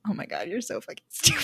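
a put-on yell of exasperation; mock exasperated shout. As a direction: shout it like a fed-up friend. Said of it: "And Fox is like".

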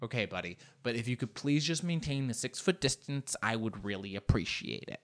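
soft, low, held-back request; hushed, mock-courteous plea; restrained politeness. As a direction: ask quietly and politely, holding it in.

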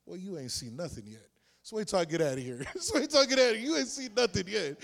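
taunting. Retold or imitated. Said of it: "taunting him back".

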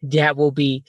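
put-on slow babying cashier voice; baby talk cashier. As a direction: cashier cooing like to a toddler. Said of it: "treats you like a baby".

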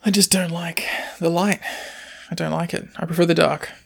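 hushed, mopey emo whisper; whiny emo teen. Pretend. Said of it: "You sound so emo right now".

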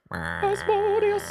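very high, slow squeaky creature; tiny creature voice. Acted. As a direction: stretch it out like a tiny critter. Creature voice saying its name.

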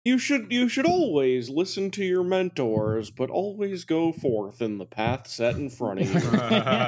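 lofty valedictorian advice, lightly voiced; a hint of a solemn commencement speaker; earnest graduation speech. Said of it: "just say it like a, a valedictorian speech".

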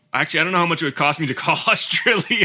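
quick attempt at an Australian accent; Aussie accent. Host trying Aussie about the cost of calling, Australian accent. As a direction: rattle it off in a rough Aussie accent. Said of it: "Can you do an Aussie?".

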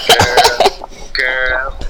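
put-on "Girl" said as "gwirl", R dropped; "girl" with a w sound for the r, childlike; says w for r. Shown as a demonstration. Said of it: "I couldn't say my R's".

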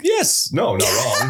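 quick laughing no; rushed laughing denial. Real, not acted. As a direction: blurt it out through a laugh. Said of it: "you said that too fast".

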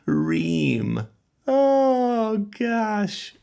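giggling, can't hold it in; laughing. Real, not acted. Cracking up at wife's joke.

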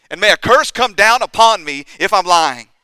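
high, forceful outburst; loud sworn oath. Retold or imitated. Peter swears to his accusers, loud vehement oath. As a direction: swear it at full voice to the whole crowd. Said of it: "We also read that Peter swore".

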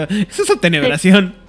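loud, high excited cry; excited exclamation. Acted. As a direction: shout it in delight. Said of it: "así que yo".

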